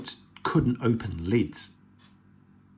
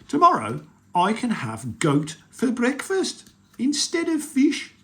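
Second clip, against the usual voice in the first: troll voice; 11 semitones higher, 4 dB louder than usual. Acted. Troll dreaming of breakfast.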